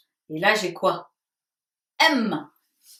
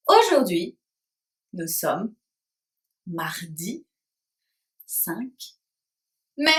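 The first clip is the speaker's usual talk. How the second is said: word by word with a pause after each, for the class to repeat; softer, each word set apart so the little ones can copy; model phrase for repeating; 5 semitones lower, 3 dB quieter than usual. Shown as a demonstration. Teacher to her pupils, giving the date to repeat word by word. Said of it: "vous allez répéter après moi".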